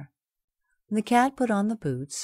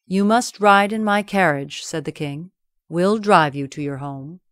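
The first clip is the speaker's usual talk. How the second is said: louder, generous royal invitation; king's voice; 7 dB louder than usual. Acted. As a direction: invite him grandly.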